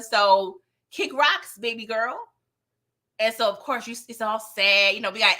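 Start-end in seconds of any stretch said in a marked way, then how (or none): 0.0-2.2 dismissive. Retold or imitated. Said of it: "he told Glow".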